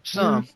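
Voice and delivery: "Some" set apart as one emphatic word; stress on "some". Real, not acted. Host qualifying the news, stress on "some". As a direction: punch "Some" by itself. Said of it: "I stress the word some".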